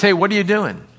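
shouting a question to a digger; calling out. Pretend. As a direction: hail the worker across the site. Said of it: "if you said this".

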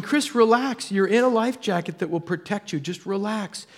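urging oneself calm. Retold or imitated. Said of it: "my mind is going".

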